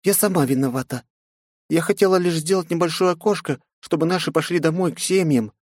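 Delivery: put-on young assistant admitting her fault; Margo, guilty. A narrator's reading. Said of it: "выдохнула слегка помятая Марго".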